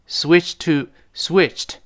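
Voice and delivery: "switched to" with the ED unreleased. Shown as a demonstration. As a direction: hold back the d/t burst in "switched" before "to". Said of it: "后面那个E D失去爆破了".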